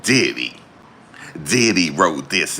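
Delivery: lightly voiced Armand Wiggins, slow and deliberate; a hint of Armand drawing out a rapper's name. Co-host mimics his friend Armand saying a rapper wrote it, lightly voiced. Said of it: "In my Armand voice".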